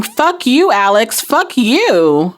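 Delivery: restrained retold outburst, no real crying; mock screaming. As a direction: imitate a distraught curse at normal volume. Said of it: "screaming and crying, just absolutely beside herself".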